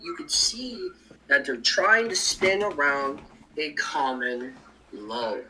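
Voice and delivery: choppy, breaking-up call audio; glitching out. Real, not acted. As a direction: voice cutting in and out over the stream. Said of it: "You're glitching out a little bit".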